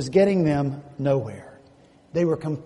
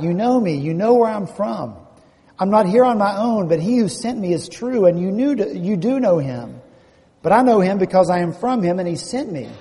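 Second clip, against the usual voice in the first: mildly raised preacher's cry; quoted outcry, louder at each new phrase; 3 semitones higher, 5 dB louder than usual. Acted. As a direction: proclaim it firmly to a crowd. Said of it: "And he cries out".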